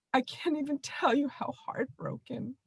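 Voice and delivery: tearful broken whisper; choking back tears, barely voiced; ugly crying. Real, not acted. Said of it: "I'm going through an ugly cry".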